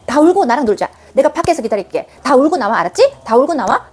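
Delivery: 다정하게 응원하듯; encouraging. Shown as a demonstration. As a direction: cheer the child on gently. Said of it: "응원하듯이". (응원하듯 다정하게)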